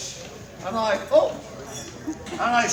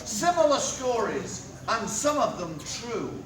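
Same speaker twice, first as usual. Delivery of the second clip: town crier. Acted. Town crier closing proclamation.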